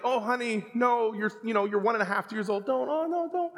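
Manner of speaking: gently telling a little daughter not to touch, tenderly; gentle warning. Retold or imitated. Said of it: "it started gently".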